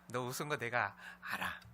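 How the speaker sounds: calm, knowing reassurance, falling at the end; gentle, smiling. Acted. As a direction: say it easily, without blame. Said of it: "편한 느낌으로 미소 지으면서". (편안하게 웃어주듯)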